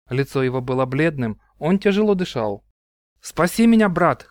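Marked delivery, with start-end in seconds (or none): 3.2-4.3 desperate, louder plea; panicked cry for help. Acted. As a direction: cry out to your brother, gasping. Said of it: "крикнул он".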